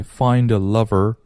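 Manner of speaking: "find a" linked as one word, fine-duh; 连读示范. Shown as a demonstration. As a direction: run the d of "find" into "a". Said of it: "连起来". (find和a连起来读)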